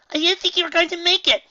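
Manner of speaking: high, loud, delighted; excited. A narrator's reading. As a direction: gush with relief. Surprised happy filly.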